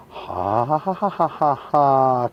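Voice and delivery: short amused laugh at his own joke; chuckling laugh. Real, not acted. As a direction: laugh at your own pun.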